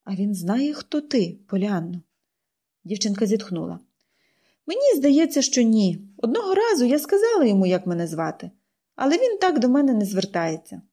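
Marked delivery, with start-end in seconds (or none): 0.0-2.0 soft, quiet gentle question; aunt softening, softer; surprisingly gentle. Acted. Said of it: "на диво м'яким голосом". 4.7-10.8 put-on higher, eager girl building her case; girl's voice rising as she pleads; girl pleading. Pollyanna answers.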